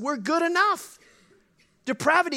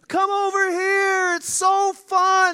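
put-on children calling; 7 semitones higher, 5 dB louder than usual. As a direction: call sweetly over the wall. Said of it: "Children on the other side".

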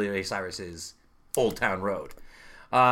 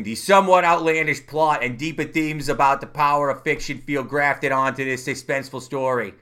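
put-on Boston accent; 3 semitones higher, 5 dB louder than usual. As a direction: quote read in a light Boston accent. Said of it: "It's my Boston, uh, voice".

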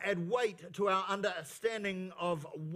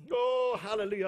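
excited praise; 4 dB louder than usual. Real, not acted. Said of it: "I'm so excited".

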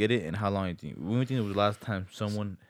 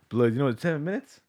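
incredulous; 6 semitones higher, 7 dB louder than usual. Real, not acted. Incredulous at the time.

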